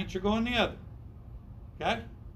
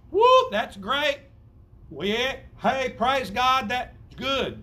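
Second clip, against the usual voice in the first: mock celebration; 6 semitones higher, 5 dB louder, much slower than usual. Preacher mimics celebrating arrival.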